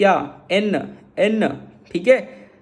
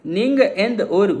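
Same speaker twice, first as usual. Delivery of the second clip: slow Tamil demo; slower than usual. Shown as a demonstration. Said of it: "तो वो कैसे बोलेगा?".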